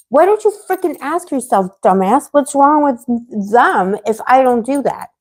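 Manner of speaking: venting at people who judge her, heated and indignant; heated outburst. Real, not acted. Streamer snapping back at critics, heated and indignant. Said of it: "My inner fighter's coming out".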